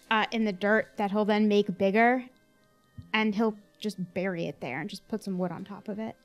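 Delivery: ordinary talk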